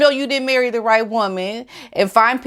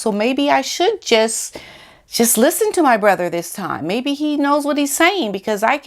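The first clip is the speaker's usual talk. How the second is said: imagined Harry reflecting; 5 semitones higher than usual. Retold or imitated. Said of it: "Then you can reckon".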